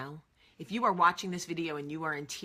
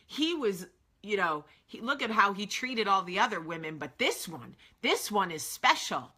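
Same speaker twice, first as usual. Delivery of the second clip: lightly voiced swooning admirer, a bit louder; mock gushing onlooker; 3 semitones higher, 3 dB louder than usual. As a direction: gush over him like a gossip who thinks she's the special one. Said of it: "We want the world to go".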